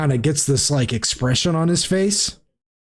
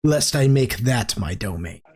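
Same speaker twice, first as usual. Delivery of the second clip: slow menacing host; 3 semitones lower than usual. Acted. Alistair Blackcloak warning the party, slow and low. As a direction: let each word hang like a threat.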